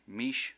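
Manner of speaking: "mishpachot" in three separate syllables, mish, pa, chot; split by syllable. Shown as a demonstration. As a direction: pause after each syllable of "mishpachot". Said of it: "becomes a syllable with that consonant".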